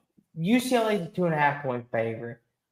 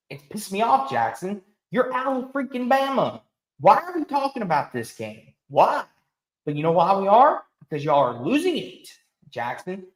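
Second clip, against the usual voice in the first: pitched-up, exasperated venting; heated rant; 4 semitones higher than usual. Real, not acted. Host venting at his co-host about Bama, heated. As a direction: really let the frustration out. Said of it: "sound like I'm angry here".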